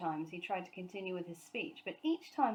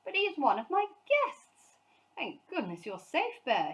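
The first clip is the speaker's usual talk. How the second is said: much higher, louder shocked protest; aghast exclamation; 7 semitones higher, 6 dB louder than usual. A narrator's reading. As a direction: cry it out in dismay. Sir Huntley aghast.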